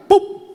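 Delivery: short, high-pitched bang; punchy spoken thump; imitated hammer blow. Preacher hammers a nail into the handle, imitated bang.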